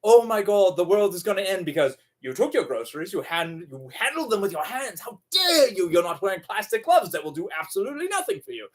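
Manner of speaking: panicked scolding, fast; mock a frantic germaphobe scolding; hammed-up hysterical shopper. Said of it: "instead of".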